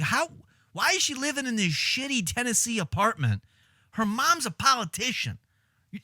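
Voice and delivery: high-pitched exasperated disbelief; incredulous complaint at the television; mock yelling at TV. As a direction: rant in high-pitched outrage, without real volume. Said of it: "I will yell at it where I'm just like".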